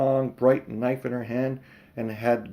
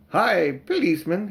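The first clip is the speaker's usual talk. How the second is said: cockney cabby calling; 6 semitones higher, 4 dB louder than usual. Acted.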